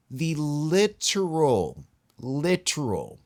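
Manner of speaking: "literal" drawn out slowly and high, then repeated; slow emphatic "literal, literal"; stress on literal. Real, not acted. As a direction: lean hard into "literal", then say it again.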